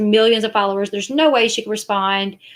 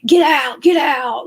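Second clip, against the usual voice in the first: mocking Katie; 3 semitones higher than usual. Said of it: "she goes".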